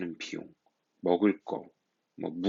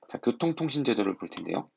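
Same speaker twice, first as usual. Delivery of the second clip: whisper; 3 semitones higher than usual. Acted. Whispered lesson transition.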